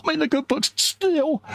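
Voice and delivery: sing-song boast. Retold or imitated. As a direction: crow it like a smug kid. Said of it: "I go".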